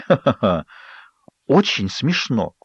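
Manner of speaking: a fake "ха-ха-ха", then a slow, dry "очень смешно"; sarcastic mock laugh. Bride mocks Jake's joke with a fake laugh.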